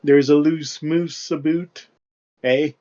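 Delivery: exaggerated slow Canadian accent; hammy stereotype Canadian, drawn out. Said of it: "horribly inaccurate, Canadian accent stereotypes".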